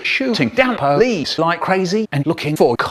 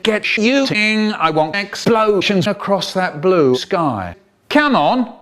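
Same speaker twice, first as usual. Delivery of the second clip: cheery orders; 3 semitones higher, slower than usual. Acted. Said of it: "says my dad cheerily".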